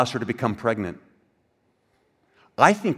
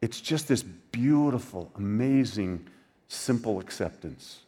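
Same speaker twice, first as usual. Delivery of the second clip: tender; 4 dB quieter, slower than usual. Real, not acted. Tender turn after mock.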